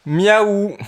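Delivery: cat meow. Shown as a demonstration. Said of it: "Vas-y, fais-le mieux".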